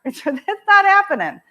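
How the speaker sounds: high, loud tearful wail; distraught daughter. Retold or imitated. Crying daughter giving up on the concert, high and loud. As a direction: let it break into a near sob. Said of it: "And she starts crying".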